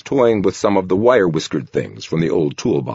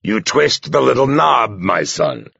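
friendly; 6 semitones higher, slower than usual. A narrator's reading. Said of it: "said the same friendly voice".

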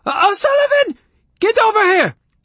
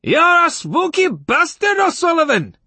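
high, loud drawn-out yell; spooked, irate shouting after someone; angry yell; 6 dB louder than usual. A narrator's reading. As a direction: hurl the insult in a shrill shout. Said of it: "he yelled".

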